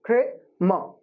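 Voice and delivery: Kramer said as KRAY-muh, no R sounds; two syllables only, Kramer. Shown as a demonstration. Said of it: "there are just two syllables here".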